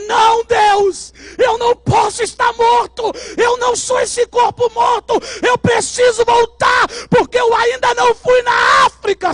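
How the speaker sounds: high, loud insistent plea; pleading shout. Retold or imitated. Preacher pleading with God to return to life, loud and high. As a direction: refuse death out loud.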